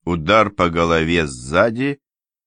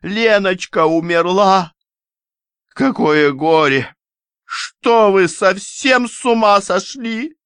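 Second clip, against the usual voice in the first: shrill grieving cry; 14 semitones higher, 4 dB louder, slower than usual. Acted. Grieving mother shouts at fighting men.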